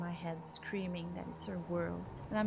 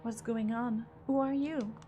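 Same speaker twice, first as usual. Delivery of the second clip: alarmed demand; 2 semitones higher, 3 dB louder than usual. Acted. Cornered player demanding who the stranger is, panicked. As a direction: blurt it out in fear. Terrified at a corpse.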